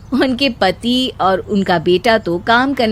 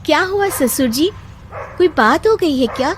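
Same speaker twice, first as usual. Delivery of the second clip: put-on a bit higher young bride, politely exasperated; lightly higher daughter-in-law teasing the poetry craze; lightly voiced daughter-in-law; 5 semitones higher than usual. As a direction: needle her mother-in-law gently. Daughter-in-law asks father-in-law.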